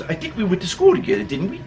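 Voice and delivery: put-on New York accent. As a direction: lightly mimic a New Yorker's quick, questioning talk. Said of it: "Guy sounds like he's from New York".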